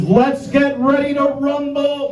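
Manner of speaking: slow, drawn-out ringside announcer call; Michael Buffer impression. Comic imitating the ringside boxing announcer's famous catchphrase. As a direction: stretch it out like a boxing ring announcer. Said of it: "His, his catchphrase is".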